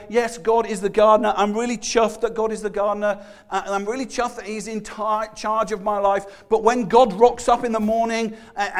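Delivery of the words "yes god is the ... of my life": mock cheerful Christian. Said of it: "you could say".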